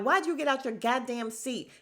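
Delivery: retelling Nene snapping at her friend; imitating an angry yell. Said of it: "And Nene is like".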